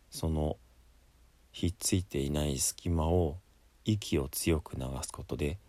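normal talking voice

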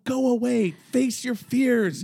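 slow, soothing quoted advice. Retold or imitated. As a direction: imitate a kindly, comforting voice. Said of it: "It's soothing. He's saying".

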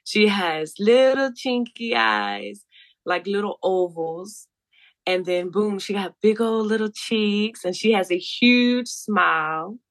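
slow, theatrical guided-meditation voice; soft spa narration. Pretend. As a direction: lay each word down slowly, soothing. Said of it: "I'm quite theatrical".

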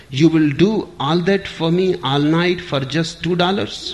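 hammed-up roar with a laugh; bellowed. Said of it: "he leaned back and bellowed".

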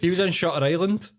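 amused, laughing protest. Real, not acted. Laughing after wrong guy found.

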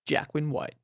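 put-on American podcast host; American accent. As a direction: welcome listeners in a playful American accent. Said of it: "doing the American accent".

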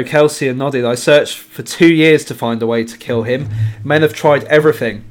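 measured, emphatic reading; book quote read aloud. A narrator's reading. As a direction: read the passage out with relish.

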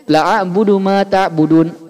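la clipped short in la a'budu ma ta'budun; wrong short la. Shown as a demonstration. Teacher imitating the student's short la. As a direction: say la quick and short. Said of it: "Bapak bacanya".

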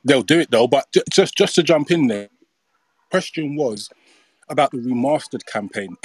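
breathless, catching his breath. Real, not acted. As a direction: talk while short of breath. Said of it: "So I'm a bit out of breath".

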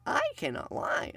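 high-pitched mock Canadian-ish voice; put-on high voice with an accent tinge. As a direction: pitch it up like a playful impression. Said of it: "he's got that high voice".

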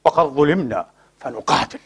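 slow, pompous imitation of a preacher's ruling; mock ignorant sheikh. Mocking the sheikhs who justify fighting, slow and pompous. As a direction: drawl out the sheikh's fatwa, mocking it. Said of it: "يقول لك".

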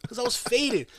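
whispered confession. Real, not acted. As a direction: whisper it like a secret to friends. Confessing aside to friends.

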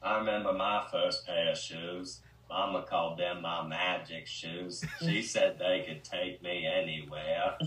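slow, drawled Southern Forrest voice; a light take on Forrest's slow drawl; Forrest Gump impression. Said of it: "We've all three officially done a Gump impression".

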